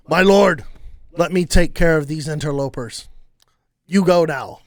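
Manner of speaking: orc henchman. Acted. Orc to its master on the throne, firm henchman voice. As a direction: speak up as a loyal henchman. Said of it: "he says".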